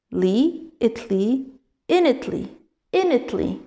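li, itly, initly, each piece said apart; built up from the end. Shown as a demonstration. Teacher locating the accent, ending syllables drilled separately. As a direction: step backwards through the ending of indefinitely, piece by piece. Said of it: "c'est sur le".

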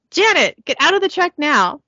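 high-pitched mock shout; acted shout. Truck's voice orders the passenger out, mock shouting. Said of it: "Trini shouts".

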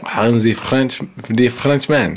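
lightly put-on French accent; a hint of mock Frenchman accent. Shown as a demonstration. Comedian playing a Frenchman for co-host, light French accent. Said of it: "I can do French".

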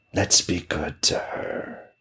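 slow, sly whisper; scheming witch. Acted. Frosty witch plotting with her children, a sly whisper. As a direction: whisper the trick slowly.

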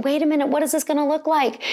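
high, fast, anxious inner voice; imitating panic. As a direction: rush it out in mock alarm. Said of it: "I wasn't going".

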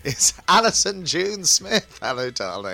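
camp horror-hostess welcome; theatrical drag host voice; campy drag queen. Acted. Campy host persona intro.

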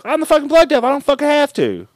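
very high, loud bratty screech; very high tantrum voice; bratty Power voice. Retold or imitated. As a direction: squeal it like a spoiled child. Power shouting her claim.

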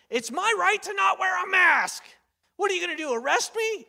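high, loud defiant shout; entitled Karen. Retold or imitated. Karen in a bank refusing a mask, shrill mock defiance. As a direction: sneer it like an entitled customer. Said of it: "a Karen in a bank that said".

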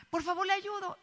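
súplica suave y aguda de anciana; viejita. Acted. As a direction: insiste bajito, como una viejita. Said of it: "llega una viejita". (viejita que ruega con voz aguda y suave)

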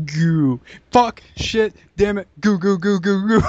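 mock frustrated cursing and goo. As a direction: curse and sputter in mock frustration. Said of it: "you were just like".

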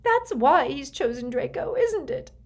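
high, loud, pressing accusation; insistent, distraught. A narrator's reading. Mother pressing Snape for the truth, high and insistent. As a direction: push for an answer, voice rising sharply. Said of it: "she persisted".

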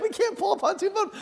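very high, strained protest; hammed-up panicky squeal; acted frantic protest. Dad realising towing is hopeless, high mock panic.

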